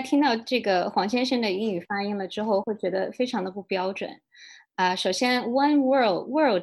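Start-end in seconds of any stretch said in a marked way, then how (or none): 5.4-6.6 "world" said slowly with the L sounded; careful English "one world"; model pronunciation. Shown as a demonstration. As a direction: say "world" clearly, keeping the L before the D. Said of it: "这个词其实是一个非常难的发音".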